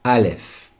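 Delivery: "Aleph" said clearly for repeating; model pronunciation. Shown as a demonstration. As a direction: say "Aleph" as a teacher leading learners. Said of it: "Let's just say it one more time".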